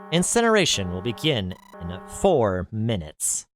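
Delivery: cold automated system announcement. Acted. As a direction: read it like a machine speaker.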